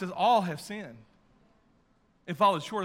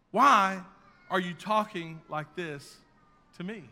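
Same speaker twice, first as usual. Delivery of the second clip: louder, higher pleading Saul; 3 semitones higher, 7 dB louder than usual. Acted. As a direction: voice Saul's desperate protest. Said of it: "Saul's replied was".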